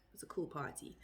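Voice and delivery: whispered gloss. Real, not acted. Unvoiced gloss after example.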